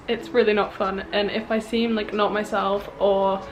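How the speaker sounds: a bit breathless from illness; tired. Real, not acted. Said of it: "out of breath or just overall just a bit tired".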